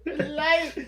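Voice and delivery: high mock scream, fading on each repeat; Jeff Hardy screaming. Co-host joining in the wrestler imitation, mock screaming. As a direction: echo the impression, loud then trailing away. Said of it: "followed by Jeff Hardy screaming".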